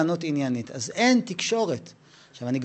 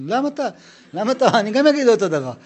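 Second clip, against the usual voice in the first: high, loud, wounded cry of protest; defensive outburst; 7 semitones higher, 7 dB louder than usual. Acted. Man accused of overreacting pleads loudly, wounded. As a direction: shout it like you're the one under attack.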